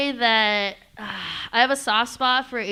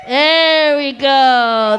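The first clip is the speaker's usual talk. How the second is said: slow laughing coo; 2 semitones higher, 12 dB louder, much slower than usual. Real, not acted. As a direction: draw it out through laughter. Feeding snack, laughing.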